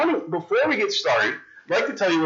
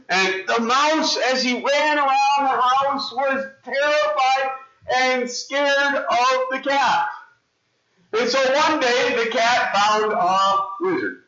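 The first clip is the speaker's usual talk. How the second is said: storybook narration; 8 semitones higher than usual. A narrator's reading. Telling the frightened mouse's story.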